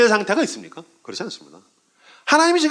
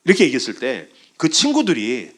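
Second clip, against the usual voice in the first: ordinary talk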